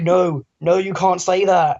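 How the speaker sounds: insistent telling-off, lightly acted; mock objection. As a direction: object firmly, play-acting alarm. Acted objection to misnaming someone.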